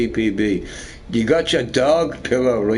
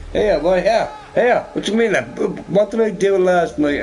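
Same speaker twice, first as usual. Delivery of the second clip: higher-pitched mock bewilderment; taken aback; 7 semitones higher than usual. Retelling his reply to the panel's demand, taken aback. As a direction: act out puzzled disbelief, pitched up.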